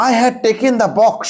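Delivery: slow whisper, word by word; whispered dictation. Shown as a demonstration. Teacher whispering a sentence to students, slowly. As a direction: breathe the sentence out slowly for copying. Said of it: "দেখো".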